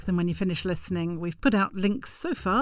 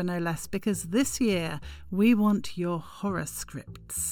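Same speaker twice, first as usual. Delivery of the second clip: spooky horror voice; 3 semitones lower, 4 dB quieter than usual. Acted. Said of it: "you really have got range".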